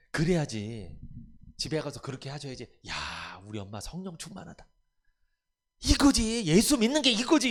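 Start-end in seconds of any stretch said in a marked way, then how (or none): 2.9-7.5 delighted family member. Retold or imitated. 성령 충만한 엄마를 보고 신나서 높고 크게 외치는 가족. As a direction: cheer that mom is truly changed.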